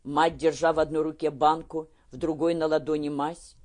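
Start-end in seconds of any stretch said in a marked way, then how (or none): none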